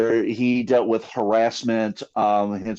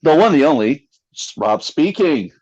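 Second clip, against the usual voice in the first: announcer intro; 3 semitones higher, 4 dB louder than usual. Pretend. Announcing co-host like a showman.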